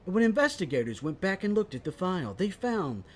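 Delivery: lightly put-on true-crime documentary narration; mock crime-show narrator. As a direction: read it like a cold case file. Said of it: "cold case files".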